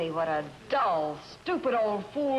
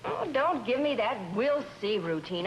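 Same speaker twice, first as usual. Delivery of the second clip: higher-pitched irritated retort; exasperated; 4 semitones higher than usual. Acted. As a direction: cut him off, fed up. Wife quarrels, rejects his brush-off.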